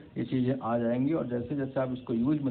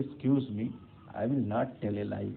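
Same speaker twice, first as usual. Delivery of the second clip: polite and gentle; 2 semitones lower, much slower than usual. Shown as a demonstration. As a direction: ask pardon first, then say it gently. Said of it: "आपको और ज़्यादा अच्छा लग रहा है सुनने में".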